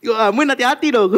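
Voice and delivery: words pushed out through real laughter; amused laughing scold. Real, not acted. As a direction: still laughing, loud and high.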